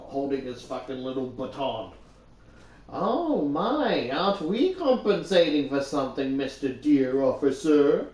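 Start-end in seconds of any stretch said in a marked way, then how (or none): 2.9-8.1 mocking. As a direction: sneer at the cop playfully. Mocking the cop retold.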